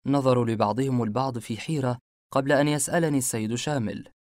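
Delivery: ordinary delivery, nothing marked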